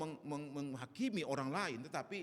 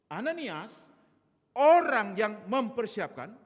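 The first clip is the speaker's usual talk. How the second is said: full-force preaching; 7 semitones higher, 7 dB louder than usual. Acted. Pastor preaching from the pulpit.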